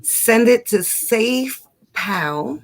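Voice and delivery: slow, drawn-out California accent; exaggerated slow Californian; California style. Shown as a demonstration. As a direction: stretch it out like a mock Californian. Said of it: "say it in California style".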